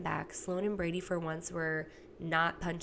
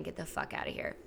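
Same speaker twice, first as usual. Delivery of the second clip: whispered; 4 dB quieter than usual. Retold or imitated. Mom shooing son during call.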